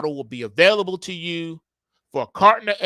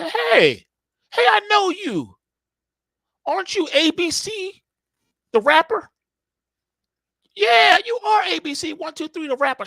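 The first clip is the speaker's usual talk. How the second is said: high, eager falsetto fan voice; starstruck fan; 4 dB louder than usual. Acted. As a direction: squeal it like you've spotted a celebrity. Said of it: "you're like".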